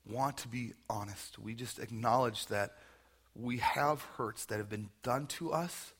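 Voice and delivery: unhurried, reverent pastoral prayer. Real, not acted. Pastor leads standing congregation in prayer for forgiveness, reverent.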